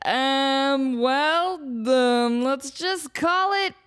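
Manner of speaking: lazily name it; drunk explorer. Retold or imitated. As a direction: drunk explorer brushing off the intern. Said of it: "the drunken explorers are like".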